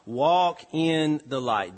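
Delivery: WALK stressed, slow and falling; slow emphatic call to walk. Shown as a demonstration. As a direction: lean on walk, unhurried. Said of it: "so stay near the light".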